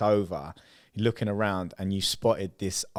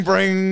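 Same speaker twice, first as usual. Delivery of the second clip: phone bring sound; 10 semitones higher, 8 dB louder than usual. Retold or imitated. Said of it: "what did sound bad was the bring".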